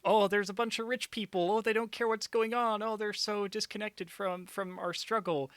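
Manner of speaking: high, mocking impression of naive moviegoers; high sarcastic voice of the characters. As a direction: sneer at their shallow thinking. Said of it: "it's like".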